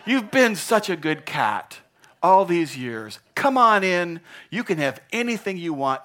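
loud, effusive praise of a pet; big-hearted gatekeeper greeting; hearty welcome. Acted. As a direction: welcome them in grandly. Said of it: "he says".

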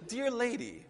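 polite address. Retold or imitated. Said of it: "Another one says".

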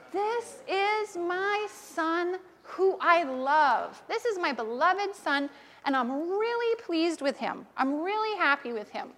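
slow, solemn voice of God; lightly voiced God speaking from heaven. Children's talk, God blessing his son, slow and solemn. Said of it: "the big voice said".

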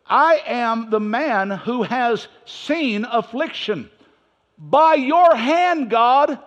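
high, slow lament to God; whining prophet. Acted. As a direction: plead like a complaining prophet. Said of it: "He is whining to God".

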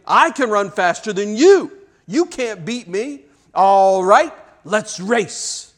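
put-on rival boy's defiant retort; arguing back. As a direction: throw the boast back as a heated challenge. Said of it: "Another one answers him".

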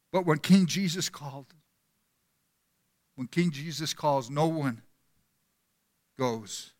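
a lightly voiced preacher, sinking to a hush at the end; impassioned appeal fading. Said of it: "this is what he said".

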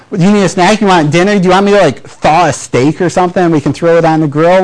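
mock Midwestern host offering everything; eager hospitable host. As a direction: pile on the hospitality, Midwestern nice.

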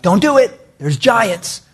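high-pitched mock panic; alarmed warning. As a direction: imitate the frightened spies pleading. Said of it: "And they're like".

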